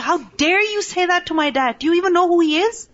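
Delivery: reliving the fury at the man who insulted her dad; mock-furious defence of her dad; retold angry outburst. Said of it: "I was so mad".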